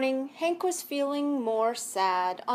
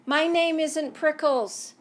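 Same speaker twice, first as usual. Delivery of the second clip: higher, louder annoyed retort; grumpy yell; 5 semitones higher, 4 dB louder than usual. Acted. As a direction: snap back at the nickname. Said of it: "Hank yelled back".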